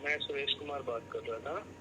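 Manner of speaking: faint, soft phone voice; hard to hear over the line; barely audible. Real, not acted. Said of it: "आपकी आवाज़ कम आ रही है".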